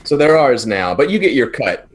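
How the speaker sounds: cocky hand-off. Acted. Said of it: "I'll say".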